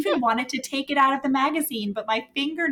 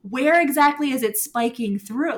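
cracking up, louder, teasing question; laughing tease; 3 semitones higher, 3 dB louder than usual. Real, not acted. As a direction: laugh through the dirty joke. Reacting to arousal joke.

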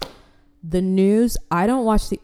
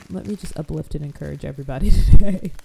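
mock preachy; 8 dB louder, faster than usual. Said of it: "to be like".

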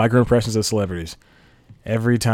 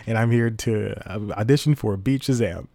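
Acted. Auditioning guy greets Mister Fox, lightly acted eager hello. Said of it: "so let me reenact".

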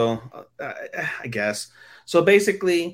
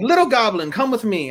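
luring voice; 9 semitones higher than usual. Retold or imitated. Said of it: "he's like".

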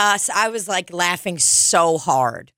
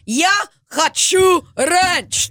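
high, loud, slow yelled chant; mock screamed demand; 13 semitones higher, 4 dB louder, slower than usual. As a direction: shout it like a protester. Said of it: "they're storming the Capitol screaming that".

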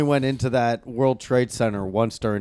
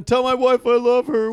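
dramatic last words; 9 semitones higher than usual. Pretend. Mock last words on plane.

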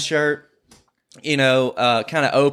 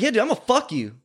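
higher cocky threat; mock tough reply; 7 semitones higher than usual. Retelling his threat to the stranger, higher cocky tone. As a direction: toss the threat back casually.

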